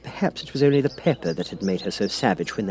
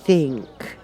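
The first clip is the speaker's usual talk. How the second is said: put-on high, unsure girl's voice; Alice, higher, unsure; 7 semitones higher, much slower than usual. A narrator's reading. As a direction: guess hesitantly. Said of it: "said Alice".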